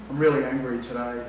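unconvincing angry claim, dead level; deadpan fake anger. Shown as a demonstration. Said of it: "if I speak like that".

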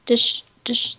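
"Dish, dish" said really fast; rapid "Dish, dish". Shown as a demonstration. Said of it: "like, really fast".

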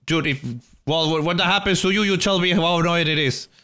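high wail settling into exasperation; upset protest. Real, not acted. Streamer telling partner how annoying it is, upset high protest. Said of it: "Why are you so upset?".

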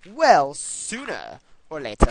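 put-on British accent. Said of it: "I like giving him a British accent".

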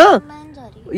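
loud, flat-out refusal in a sulk; angry refusal. Real, not acted. Girlfriend refusing to continue the trip, loud angry refusal. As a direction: dig in and refuse loudly.

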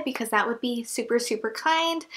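slightly winded, out of breath. Real, not acted. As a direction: talk a bit out of breath. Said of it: "I'm out of breath".

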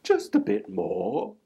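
sly coaxing voice; sly fox voice; luring fox. A narrator's reading. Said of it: "said the voice".

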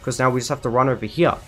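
hurried, nervous rambling; rushed game plan; talking so fast. Real, not acted. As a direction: rattle through the steps without stopping. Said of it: "I'm talking so fast".

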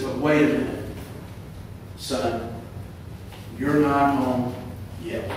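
soft, intimate retelling of a comforting voice; gentle whispered reassurance. Retold or imitated. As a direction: speak softly into his ear, with pauses. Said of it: "just as he whispered into his ear".

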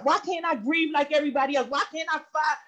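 starts quick, swells to a shout on roll all over the place; rising cry of frustration at God; building plea. Retold or imitated.

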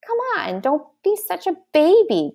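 high, wheedling plea; coaxing. A narrator's reading. Boy talks to the dragonling hiding in the pouch, coaxing. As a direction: lightly coax a scared little creature out. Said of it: "Derek coaxed".

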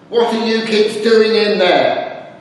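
a mild mock call through the door; lightly voiced suspicious mum; mother calling. Mother checking on kids behind closed door, mock calling.

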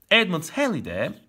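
Halley said the English way, "heli"; an English accent on Edmund Halley. Real, not acted. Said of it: "müthiş bir şive bu arada".

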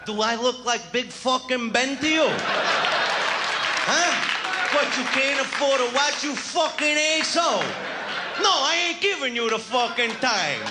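high angry yell at a stranger; rude hostile New Yorker. Retold or imitated. New Yorker yelling at a stranger who asked the time. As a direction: bark it back at the stranger.

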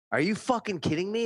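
high-pitched incredulous comeback; incredulous, rising at the end; retold outraged disbelief. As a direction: act out being indignant at a rude driver. Retells his outraged answer to driver.

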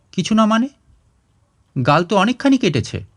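a daughter startled by her father's cut; worried daughter. Acted.

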